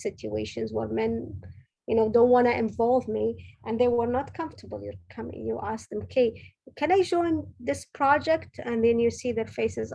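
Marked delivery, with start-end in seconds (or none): 6.0-8.6 polite request. Retold or imitated. Woman asking male colleagues to join their project, politely pitched up. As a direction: timidly ask to join, pitched up.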